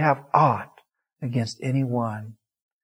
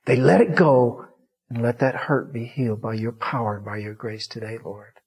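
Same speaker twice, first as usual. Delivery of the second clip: closing prayer. Real, not acted.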